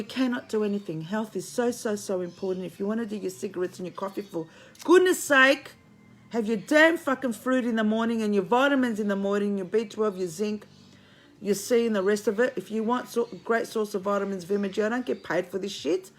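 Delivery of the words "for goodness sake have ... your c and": louder and slowed, fed-up nagging; exasperated scolding. Real, not acted. Nagging her viewers to eat fruit, loud and exasperated. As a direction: scold them like a fed-up aunt.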